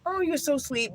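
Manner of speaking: choked up and gushing with gratitude; tearful thanks to a kind viewer; touched to tears. Real, not acted. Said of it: "you're gonna make me cry".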